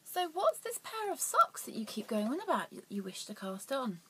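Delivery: lightly voiced curious onlooker; mock questioner voice. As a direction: pop up as an eager imagined viewer. Asks in an imagined viewer voice.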